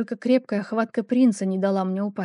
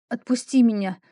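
pleading shout. Acted. Struggling against his grip.

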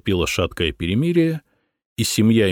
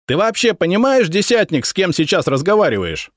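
puzzled; 11 semitones higher, 4 dB louder than usual. A narrator's reading. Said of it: "недоуменно спросил Шишка".

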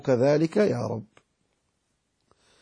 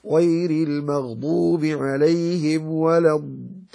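ترتيل؛ تلاوة متأنية بطيئة كإمام في الصلاة؛ رتّلها كأنك تؤم الناس؛ ترتيل الإمام في الجهرية; slower than usual. Shown as a demonstration. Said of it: "يعني يقرأ".

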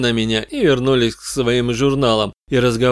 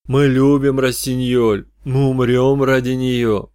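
sepulchral voice. Acted. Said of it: "загробным голосом произнёс парень".

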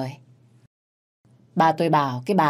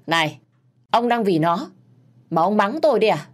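sharp, raised comeback at her husband; wife turning on her husband, voice raised in anger; angry retort; 4 semitones higher, 5 dB louder than usual. Acted. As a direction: snap back, offended and loud. Couple quarrelling, wife retorts.

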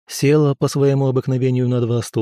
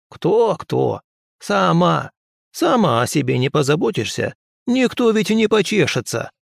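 higher crone voice, mocking; tart old woman; 6 semitones higher than usual. Old healer tells the prince who stabbed her. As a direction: toss it off like a cunning old witch.

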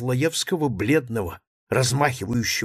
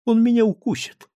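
high, loud, mock alarm; 10 semitones higher, 4 dB louder than usual. A narrator's reading. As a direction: sneer with fake fright. Von Koren mocking Laevsky. (насмешливо, с притворным испугом)

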